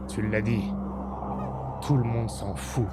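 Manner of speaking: low, bitter deserter soldier. Acted. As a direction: grumble about the kings, low.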